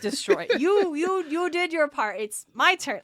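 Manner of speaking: loud, pleading orc demanding a turn; a big orc griping that it's his turn now; whiny orc. Retold or imitated. Host plays an orc begging to destroy the sand mandala, loud whiny plea.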